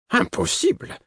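cri aigu d'effroi; s'écrier terrifié, la voix qui grimpe; cri épouvanté. Acted. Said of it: "Le vieillard était épouvanté". (cri d'épouvante aigu)

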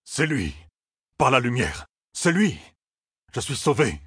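thrilled relief, voice lifted; excited. A narrator's reading. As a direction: marvel at it in excited bursts. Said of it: "tremblante d'excitation".

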